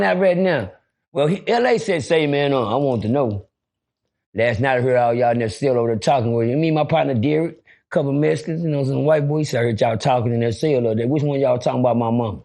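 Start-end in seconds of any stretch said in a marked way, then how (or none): 2.0-12.4 menacing big inmate. Retold or imitated. L A demanding to know who talked about his mama, low and menacing. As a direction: play the bully, calm and dangerous.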